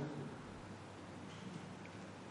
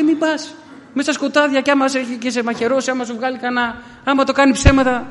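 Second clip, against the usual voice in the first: higher, urgent warning from a frightened wife; higher voice, anxious plea; alarmed wife pleading; 6 semitones higher than usual. Retold or imitated. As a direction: beg him not to go. Wife warns husband not to stop.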